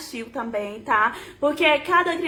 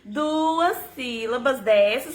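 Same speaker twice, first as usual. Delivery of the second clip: slow, lower teaching voice; measured, syllable-paced; 4 semitones lower, slower than usual. Shown as a demonstration. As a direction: spell it out slowly for a child. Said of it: "falando pra ela compassadamente".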